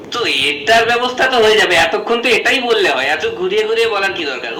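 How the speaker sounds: loudly and impatiently brushing it off; loud retort. Acted. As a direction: bark it back, fed up with the runaround. Father loudly brushing off principal. (জোরে, অধৈর্য হয়ে)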